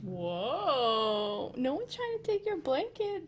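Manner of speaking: high, loud soothing; startled reassurance. Real, not acted. Owner startled by dog guarding blanket, high loud. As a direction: jump then soothe the pet.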